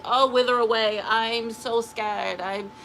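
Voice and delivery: slow, drawn-out poor-me whine; mock someone crumbling at every setback; hammed-up self-pity; mock whiny victim. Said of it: "You don't see them and be like".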